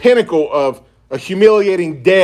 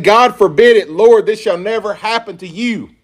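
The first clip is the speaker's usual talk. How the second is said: rebuking; 5 semitones higher than usual. Retold or imitated. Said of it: "began to rebuke him".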